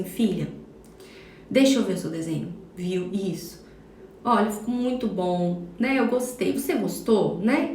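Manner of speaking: mother softly admiring her daughter's drawing, tender; gentle mom. Shown as a demonstration. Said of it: "olhar pra ela e falar assim".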